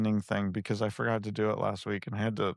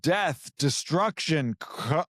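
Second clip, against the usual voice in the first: movie trailer voice; 5 semitones higher, much slower than usual. Acted. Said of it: "can't even do it with a straight face".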